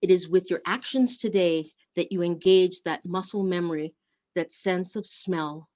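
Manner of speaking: measured poetic reading, slowing on key lines; poem reading. Acted. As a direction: read it like a poem to the congregation. Reads a poem in service.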